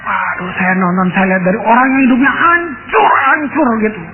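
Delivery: moved to tears as he tells it; choked up. Real, not acted. Preacher recalling her changed life, tearful. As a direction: voice catching with real tears.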